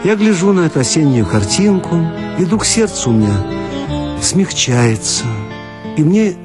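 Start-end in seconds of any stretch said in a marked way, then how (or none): none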